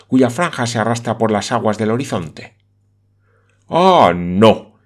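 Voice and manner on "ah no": a loud, firm no; loud exclamation. Acted. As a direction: exclaim it in refusal. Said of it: "exclamó Aristóbulo Sursiclos".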